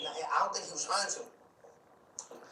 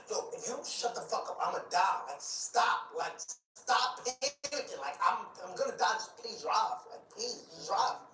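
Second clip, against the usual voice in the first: urgent, higher, breathless begging; panicked pleading; 5 semitones higher than usual. Retold or imitated. Retelling begging the Uber driver to drive off, panicked. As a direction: beg the driver to just go.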